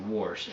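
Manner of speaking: "warsh" with an R before the sh; childhood friend's pronunciation. Retold or imitated. Quoting a friend and his mom, "warsh" with an added R. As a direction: sound the extra R in "warsh", low. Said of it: "him and his mom always said".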